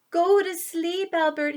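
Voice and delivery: mom shouting. Acted. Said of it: "his mom shouted from downstairs".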